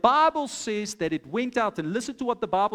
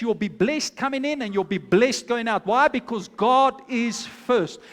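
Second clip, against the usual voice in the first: firmer, louder pulpit proclamation; preaching declaration; 3 dB louder than usual. Acted. Preacher promising the church God's care, ringing proclamation. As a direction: proclaim the blessing over them.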